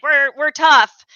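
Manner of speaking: hammed-up strongman bravado; tough Putin. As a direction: drag out the boast like a posturing strongman. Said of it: "kind of classic Putin".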